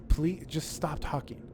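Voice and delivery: slow, spaced-out retold plea; fed-up plea. Fed-up husband begging his wife to stop talking, weary. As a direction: imitate a dad at the end of his patience, slowly. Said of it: "just fed up".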